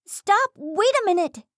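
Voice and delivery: high, sharp call to stop; demanding shout. Acted. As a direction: shout her to a halt. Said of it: "Cronus demanded".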